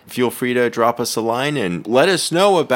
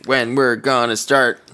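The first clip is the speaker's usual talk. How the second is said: put-on British accent, practice repeat; 3 semitones higher than usual. Rehearsing when to start, in a British accent. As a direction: try the line in an English accent. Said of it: "The accent is great".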